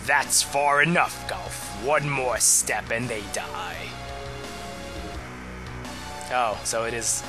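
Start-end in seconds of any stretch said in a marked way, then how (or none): 0.0-3.9 slow, threatening villain warning; slow theatrical villain menace. Acted. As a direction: threaten like a cold dark lord. Reads Exdeath threat.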